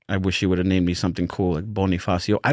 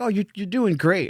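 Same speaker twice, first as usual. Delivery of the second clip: put-on encouraging girlfriend; 9 semitones higher than usual. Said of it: "My girlfriend would be like".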